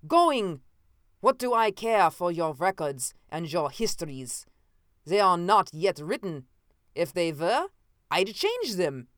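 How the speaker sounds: high loud burst on Going then wild defiance; high, loud crazed triumph; manic gloating. Acted. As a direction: gloat like a madman. Escaping man gloats wildly.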